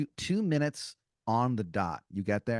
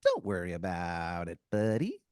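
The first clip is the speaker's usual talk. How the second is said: smiling tooth creature; 2 semitones lower than usual. Acted. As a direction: brush it off with a grin. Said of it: "smiles and goes".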